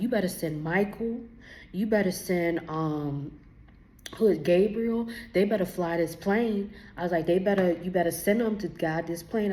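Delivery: loud demanding prayer mid-turbulence. Retold or imitated. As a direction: command the angels to come, urgently. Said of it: "I started praying".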